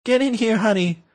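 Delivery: Rush Limbaugh voice. Retold or imitated. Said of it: "let me do a Rush Limbaugh voice here".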